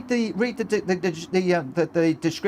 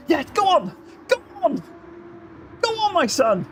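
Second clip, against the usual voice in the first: high, urgent urging; will the driver on at a high pitch; excited cheering on; 10 semitones higher than usual. Real, not acted. Commentator urging Wills up the inside, excited.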